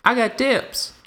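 high excited cartoon voice; squeaky high voice. High put-on voice bit.

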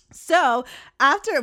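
put-on slow, drawn-out British accent on "So after". Slipping into a British accent mid-story. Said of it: "why did I do a British accent".

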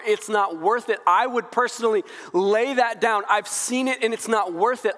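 climbing passionate sermon voice; fervent building plea. Acted. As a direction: preach it as Paul, swelling with conviction. Preacher voices Paul's fervent plea.

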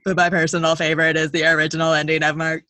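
quick run through the line; rushed read. Shown as a demonstration. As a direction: hurry it like a throwaway. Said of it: "but for real, I'm gonna own it".

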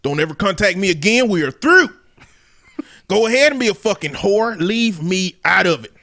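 lightly voiced angry country dad; racist country daddy. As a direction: cut her off like a country father. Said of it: "racist country daddy voice".

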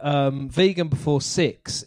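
vegan before six with Kiwi vowels; New Zealand accent. Shown as a demonstration. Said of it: "if you say it in an Australian accent".

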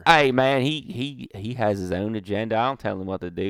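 mock Canadian redneck goat owner. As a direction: protest as a hammed-up Canadian redneck. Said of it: "Would you like to interview this man?".

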